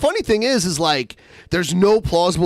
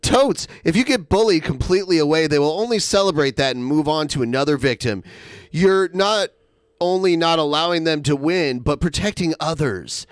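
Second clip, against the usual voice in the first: higher, rushed reading in someone else's part; lightly voiced quote, quick and raised; Zoe; 4 semitones higher, faster than usual. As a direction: read it out fast with the pitch lifted. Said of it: "'cause Zoe says".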